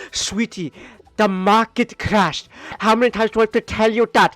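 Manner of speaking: a stressed dad losing patience, rising to near shouting; exasperated husband. Retold or imitated. Husband snaps back at wife.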